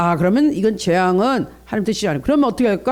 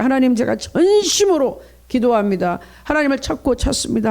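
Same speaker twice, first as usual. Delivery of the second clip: earnest prayer; 3 semitones higher than usual. Shown as a demonstration. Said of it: "간절하게 기도하세요".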